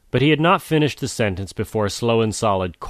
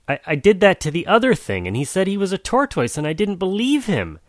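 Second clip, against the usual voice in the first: put-on higher, whining young jaguar; whiny jaguar voice; 10 semitones higher than usual. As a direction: plead to mother, sulking.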